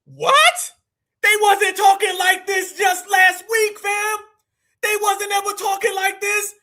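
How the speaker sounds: loud, slowed-down outrage; hollering at the viewers in disbelief; indignant shout. Real, not acted. Streamer yelling at the chat, outraged and loud.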